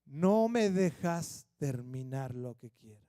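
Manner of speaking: a lightly voiced wife asking to finish; a hint of the wife pleading to be heard; gently hurt wife. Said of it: "retold wife line".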